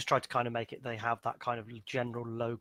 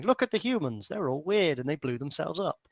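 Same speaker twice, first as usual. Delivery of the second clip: alien overlord voice; 5 semitones higher, 4 dB louder than usual. Retold or imitated. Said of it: "the glorious overlords going".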